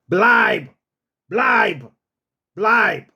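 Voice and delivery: firm order to stay; short, firm German command; authoritative command. Shown as a demonstration. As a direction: tell the dog to stay with authority. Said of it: "you got to say it with authority".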